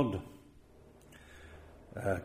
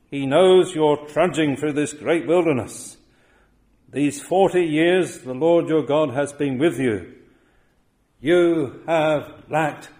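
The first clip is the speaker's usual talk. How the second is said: louder, higher preaching voice, lacked slowed right down; fervent preaching; 4 semitones higher, 5 dB louder than usual. Acted. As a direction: preach it out to the people. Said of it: "And he said this of them".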